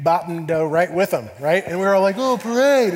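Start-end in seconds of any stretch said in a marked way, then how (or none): 2.2-2.9 high, loud excited exclamation; mock delight. Family spots the parade, loud high mock delight. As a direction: imitate gleeful distraction.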